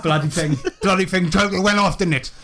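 lightly voiced flustered bumbler, hurried; blustering Willie Dynamite figure. Willie explaining the explosion, lightly flustered and quick. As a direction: rush out a sheepish excuse.

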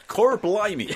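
high, hammed-up cockney exclamation; mock British wrestler. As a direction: play up a cartoon Brit, pitched high. Mocking the Bulldog's Britishness.

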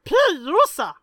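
high, loud announcer shout; loud call out. Acted. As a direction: bellow the name across the arena. Calling out a racer name.

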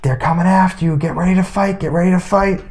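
high pitched mock yell from the bench; coach yelling. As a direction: call the warning up high, lightly. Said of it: "I hear Mister Fiddler yelling".

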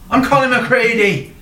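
high, insistent Irish declaration; forceful Irish accent. Pretend. Detective introducing himself at the door, forceful Irish accent. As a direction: announce yourself slowly in a loud Irish accent. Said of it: "He's so forceful".

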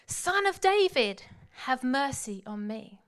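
loud, slow pleading cry. Retold or imitated. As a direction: call out again, pleading harder. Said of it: "he shouted all the more".

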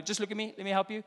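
softly repeated parental reassurance; imitating a calm, coaxing dad; coaxing father. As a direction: gently hold a crying child's attention. Father soothing his crying son.

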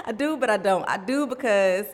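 giggling through the words; laughing. Real, not acted. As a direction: laugh it out while admitting it. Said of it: "laughing I do".

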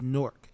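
Nork as a single syllable; Jersey pronunciation. Shown as a demonstration. Insisting on the Jersey way, Nork in one syllable. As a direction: squash Newark down to "Nork". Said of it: "N O R K".

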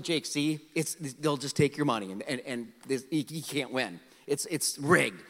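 low, soft reasoning; retold fatherly warning. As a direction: gently talk a child out of it.

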